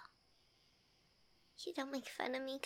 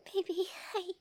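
stunned disbelief; 6 semitones higher, 4 dB louder than usual. Acted. Sees the ring box.

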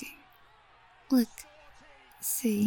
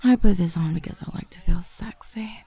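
whispering; 3 dB louder than usual. Acted. Whispered intimate roleplay.

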